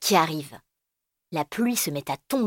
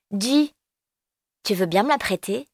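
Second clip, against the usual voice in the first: pleading little voice; child asking; 3 semitones higher than usual. Acted. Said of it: "Elio lui demande".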